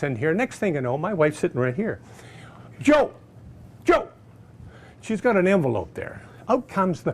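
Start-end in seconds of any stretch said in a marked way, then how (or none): 2.8-4.1 eager call. Retold or imitated. Wife eagerly calling the salesman.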